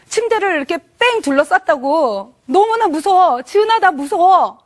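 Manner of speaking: a touch of panic, rising to a high frightened cry of the wife's name; retold frightened plea. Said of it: "남편이 막 울면서, 화를 내면서, 두려워하면서".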